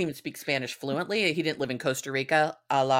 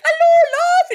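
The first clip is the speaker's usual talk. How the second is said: very high, loud mock British scream; screamed British greeting; 14 dB louder, slower than usual. Deaf grandfather greeting the girls, screamed thick British accent. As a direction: holler it as a deaf old British man. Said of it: "just start screaming at us".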